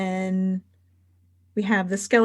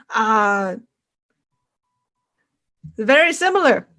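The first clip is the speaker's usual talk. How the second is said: Barnum. Acted. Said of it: "he just goes".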